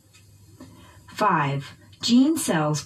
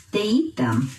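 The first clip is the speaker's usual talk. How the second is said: "eat" raised and stressed in "They eat them", then falling; teacher modelling "They eat them" with the peak on "eat"; verb stress. Shown as a demonstration. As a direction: hit "eat" in "They eat them", let "them" drop. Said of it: "stress the verb".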